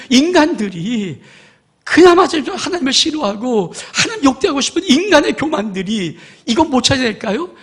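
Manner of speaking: high, loud, driving sermon climax; fiery preaching. Acted. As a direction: preach it hard to the congregation. Preacher rising to full force.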